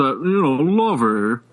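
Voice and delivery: lightly put-on Locust Valley Lockjaw accent; Thurston Howell. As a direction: imitate an upper-class Long Island lockjaw accent. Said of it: "like Thurston Howell the third".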